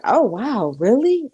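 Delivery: a mild mock gasp of disbelief; mock surprise. Mother reacting to the news, mock surprise. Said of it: "And she'd be like".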